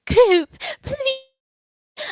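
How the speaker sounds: high, whining gnome plea; whiny plea. Acted. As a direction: whimper a high-pitched plea. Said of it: "and he goes".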